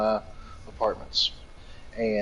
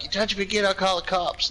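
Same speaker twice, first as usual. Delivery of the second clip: mock scared voice; 9 semitones higher than usual. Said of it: "he was like".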